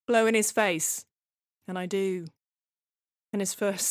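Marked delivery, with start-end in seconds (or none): 0.1-1.1 raised, insistent midwife's order; firm, louder command; urgent instruction. Acted. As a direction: press the instruction, leaning hard on BLOW. Midwife repeats instruction more urgently.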